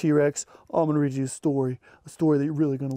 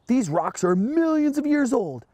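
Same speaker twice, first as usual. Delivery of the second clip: teacher explaining; 9 semitones higher than usual. Acted. Teacher explaining displays, voiced.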